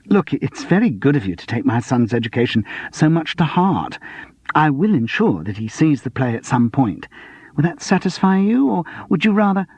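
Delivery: heavy sarcasm rising at the end; sarcastic. Acted. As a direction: lay the sarcasm on thick. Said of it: "heavy sarcasm".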